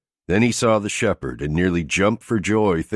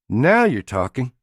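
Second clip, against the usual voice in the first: higher, louder cheer; excited approval; 7 semitones higher, 4 dB louder than usual. A narrator's reading. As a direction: cheer him on eagerly. Jamie cheers him on.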